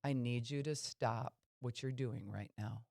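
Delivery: even, steady voice with no heat; calm firm request. Shown as a demonstration. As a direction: say it firmly but calmly, never losing it. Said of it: "I can talk just like this".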